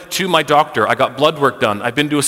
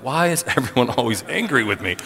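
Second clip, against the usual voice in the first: a quiet complaint broken by a laugh; 3 dB quieter than usual. Retold or imitated. Pastor laughs, retelling yet another angry listener. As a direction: laugh in disbelief mid-line.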